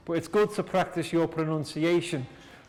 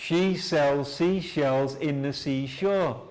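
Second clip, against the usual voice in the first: slowly; slower than usual. Shown as a demonstration. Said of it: "we will do slowly".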